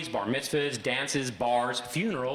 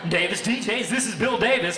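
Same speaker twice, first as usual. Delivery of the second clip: higher, louder booming radio announcer; 6 semitones higher, 5 dB louder than usual. Retold or imitated. DJ boss answering the phone in radio announcer voice. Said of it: "answering the phone in the same way".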